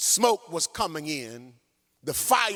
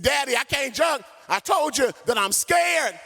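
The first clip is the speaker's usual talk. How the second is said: mock crying child; 8 semitones higher than usual. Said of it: "Little Jack started crying".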